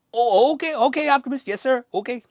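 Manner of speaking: very high, loud, cowed underling; Wheeljack. Acted. Wheeljack giving in to Optimus, high whiny submission. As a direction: give in hurriedly in a high squeal. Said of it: "Wheeljack was kinda like".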